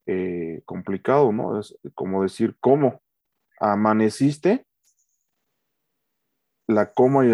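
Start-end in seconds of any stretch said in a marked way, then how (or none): 2.6-4.6 a bit aggressive. Shown as a demonstration. Husband snapping the question at his wife, aggressive. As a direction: push the question with an edge. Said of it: "un poquito más agresivo".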